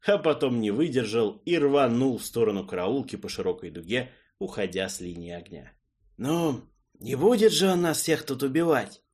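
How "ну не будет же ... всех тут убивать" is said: nervous. Acted. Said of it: "нервно пожал плечами маг".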